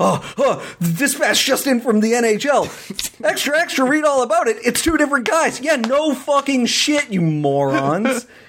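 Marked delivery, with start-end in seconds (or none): 0.0-4.6 put-on breathless newsboy cry, like a news report. Mocking how the media all report the news: mock-breathless news report. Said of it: "Now they're all report breathlessly".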